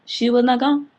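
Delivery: emphatic. Real, not acted. Vlogger insisting to viewers the woman stayed, loud. Repeated punchline.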